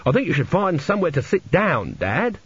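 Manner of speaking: a son kindly advising his dad, lightly acted. A narrator's reading. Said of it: "as kindly as possible".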